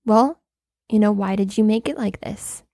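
measured, polite mock reprimand with pauses; very nice, calm. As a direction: lightly imitate a composed, courteous host. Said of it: "he would be very nice".

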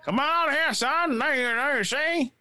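high, hammed-up dub parody; mock dubbed voice. Gamer parodying the character's dub in a high voice.

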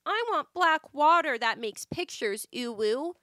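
a lightly voiced naive girl marvelling; mock childlike voice. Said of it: "She's over here like".

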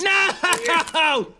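high despairing wail; anguished cry. Acted. Captive watching the internet cut, wailing.

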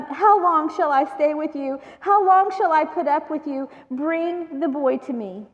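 a tired sigh of a teacher losing patience; frustrated. Retold or imitated. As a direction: push back at a faithless crowd. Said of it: "I feel like he's getting frustrated".

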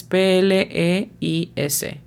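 P L E I S as separate Spanish letter names; phonetic spelling. Shown as a demonstration. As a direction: spell out P L E I S for a learner. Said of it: "La pronunciación fonética es". (deletreo fonético de P L E I S)

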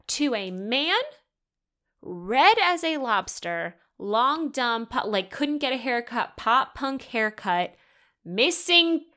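loud, high-pitched outraged listing; incredulous rant. Real, not acted. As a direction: punch out each flaw in disbelief. Ranting list of ex's flaws.

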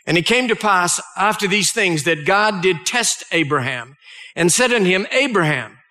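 measured, solemn Bible reading; solemn scripture reading to a congregation. Acted. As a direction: read the old King James words with weight. Reads Genesis passage aloud.

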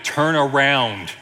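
slow, drawn-out mock-testy order; stretched, insistent imitation of a fed-up navigator; testy GPS lady. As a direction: spell it out like an impatient sat-nav. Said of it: "she gets a little testy".

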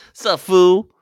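high, loud street-tough greeting; tough guy voice. Retold or imitated. Mimicking malt liquor drinker.

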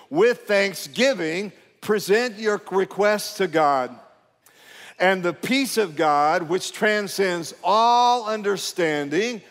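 slow, deliberate reading with key words drawn out; emphatic scripture reading. Real, not acted. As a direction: lead a congregation reading aloud, stretching the emphasized words. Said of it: "let's read it with emphasis".

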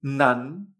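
"Nan" with pitch rising to the end; second tone. Shown as a demonstration. Teacher demonstrates N A N, "Nan" in rising second tone. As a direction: let "Nan" climb as one drawn-out syllable. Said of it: "N A N en segundo tono".

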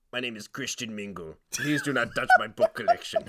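oddball book collector introducing himself; deadpan comic character, guarding his books; put-on earnest oddball voice; silly character voice. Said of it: "this guy who talks like this".

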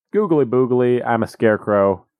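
lightly voiced dopey scarecrow; a hint of a goofy, dim-witted scarecrow; dumb scarecrow. Scarecrow introducing himself to Dorothy, lightly dopey. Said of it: "he's a dumb scarecrow".

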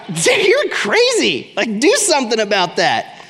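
hammed-up disbelief at his friend; incredulous friend. Acted friend reacting.

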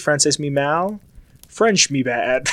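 haltingly mangled French; clumsy tourist French; slow broken French. Shown as a demonstration. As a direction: sound out each word slowly. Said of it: "If I would have said".

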